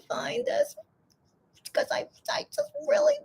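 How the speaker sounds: breathy whispered aside. Real, not acted. Fan mutters to herself while searching, whispering.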